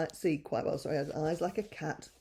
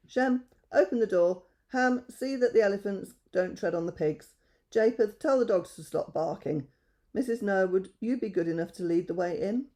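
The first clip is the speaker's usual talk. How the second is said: Noah giving orders; 3 semitones higher, 3 dB louder than usual. Acted.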